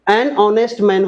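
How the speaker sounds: An honest man spoken slowly and clearly; walk through An honest man slowly; slow model. Shown as a demonstration. Teacher recapping An honest man slowly. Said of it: "ऑनेस्ट, इसका क्या होगा?".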